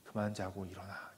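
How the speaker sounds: calm, loving wake-up call; tender words. Pretend. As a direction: coax the girl awake lovingly. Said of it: "부드러운 사랑의 말씀으로".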